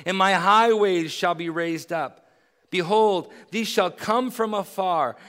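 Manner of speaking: measured, solemn reading of the passage; steady public Bible reading; scripture reading. Acted. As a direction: read it out as holy text. Scripture reading before the sermon.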